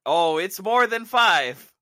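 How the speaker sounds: loud, slow groaning line. Real, not acted. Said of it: "Passing the groan test".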